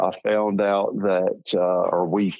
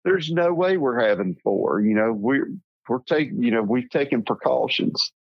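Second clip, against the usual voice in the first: retold laughing denial; 5 semitones higher than usual. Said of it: "go off on this long tangent laughing".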